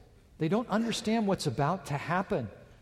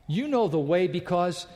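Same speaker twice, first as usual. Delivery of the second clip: preacher voicing Jesus' emphatic claim, building in force; powerful blast; 3 semitones higher than usual. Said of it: "this powerful blast from Jesus Christ".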